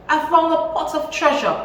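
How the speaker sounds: high, loud, laughing announcement; gleeful cry of found treasure; excited cry. Acted. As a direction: blurt out the good news with a laugh. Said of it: "he cried".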